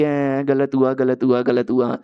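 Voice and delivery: low, slow imitation of weeping; mock crying. Fox holding her dead master, lightly acted crying. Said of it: "रोने लग जाती है".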